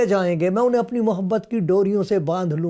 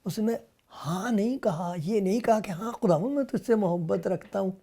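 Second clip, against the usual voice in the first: soft explanation; 6 dB quieter than usual. Shown as a demonstration. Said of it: "دیکھا آپ نے فرق؟".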